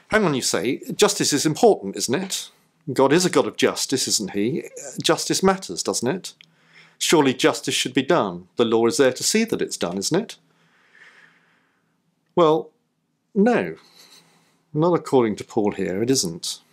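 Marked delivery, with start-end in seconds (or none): 0.1-10.4 a hint of a protesting questioner; mock objector. 12.4-13.8 high, louder flat denial; Well, no. said high and firm; emphatic no. Acted. Emphatic rebuttal.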